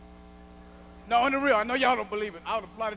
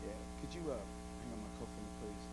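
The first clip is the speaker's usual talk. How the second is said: much lower, much softer snooty voice; prissy white flight attendant; 11 semitones lower, 15 dB quieter than usual. Retold or imitated. Mocking a snooty attendant asking to hang his coat, hushed. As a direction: put on a condescending prissy attendant. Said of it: "Little Miss White Prissy Flight Attendant".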